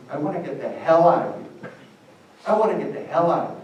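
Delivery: mock desperate kid; mock desperate cry. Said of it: "makes little kids say".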